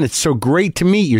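eager fan with a mild lift on "It's so great to meet you"; earnest fan, first take. Retold or imitated. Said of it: "Very earnest guy".

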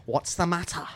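slow, taunting sea-captain voice; film quote. Retold or imitated. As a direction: drag it out as a mocking dare. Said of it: "You know what Sam said to her?".

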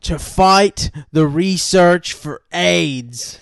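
slow, loud old man impression. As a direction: drawl it like an elderly president. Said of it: "and he goes".

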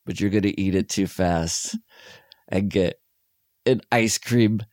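lightly imitated psychic with halting pauses; Christopher Walken. Retelling a spoof psychic's warning, lightly halting imitation. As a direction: break the warning into halting, understated pieces. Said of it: "But he just says".

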